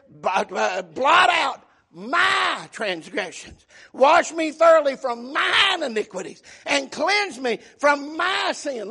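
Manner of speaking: "my" stretched out long and leaned on; slow, weighty stress on "my transgressions" and "my sin"; emphatic. Acted. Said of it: "so emphatically, he says".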